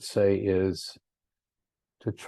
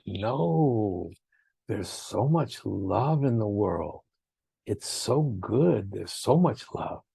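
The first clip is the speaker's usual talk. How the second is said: gentle Swami; slower than usual. Retold or imitated. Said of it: "Swami said".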